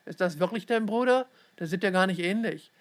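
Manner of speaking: intrusive, pushing tone; pushy prying. Acted. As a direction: keep pressing the kid for answers. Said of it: "drängte er weiter".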